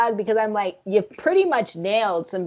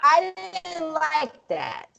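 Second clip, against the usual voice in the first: drawn-out disapproval; 6 semitones higher, slower than usual. Real, not acted. Disliking the Black Robin optics.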